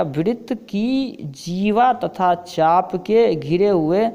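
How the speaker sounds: slow, deliberate textbook reading; measured classroom dictation; definition read-out. Acted. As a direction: spell out the definition slowly for a class.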